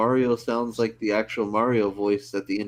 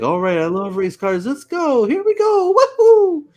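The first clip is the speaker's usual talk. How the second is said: mock very high, loud, swooping sing-song giddy excitement; 8 dB louder than usual. Imitating the movie's Mario before a race: imitating super excited Mario. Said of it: "super excited to, like, race".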